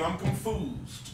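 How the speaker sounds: a lightly hammed-up puzzled aside; mock confused. Real, not acted. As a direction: drag it out like you truly can't follow. Mock puzzlement after laugh.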